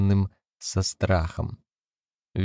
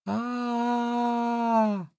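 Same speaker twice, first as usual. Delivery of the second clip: high piercing scream held long; a piercing cry of fear; shrill scream; 4 dB quieter than usual. A narrator's reading. Wife screams shrilly to keep her husband away. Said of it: "Пронзительно вскрикнула она".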